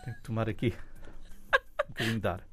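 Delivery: breathless behind a face mask; gasping a little for air; short of breath. Real, not acted. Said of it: "Vá, respira fundo".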